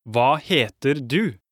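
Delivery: over enunciating. Shown as a demonstration. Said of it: "let's try it one more time slowly".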